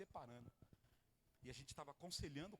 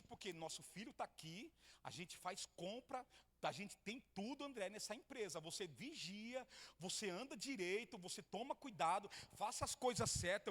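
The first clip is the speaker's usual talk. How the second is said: wife's rising plea; 4 semitones higher, 5 dB louder than usual. Retold or imitated. Wife urging him, building up.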